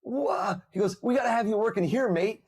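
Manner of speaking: a quick, breezy Australian imitation; Australian accent. The Australian CEO's offer retold in a light Australian accent. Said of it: "and he's Australian".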